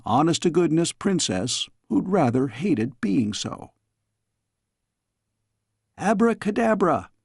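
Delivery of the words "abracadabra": high, cackling witch shout; evil witch cry. A narrator's reading. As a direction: cry the spell like a wicked witch. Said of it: "cried the evil witch".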